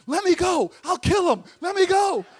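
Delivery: high, very loud defiant yell. Retold or imitated. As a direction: yell it as a wounded ego blustering. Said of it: "started yelling".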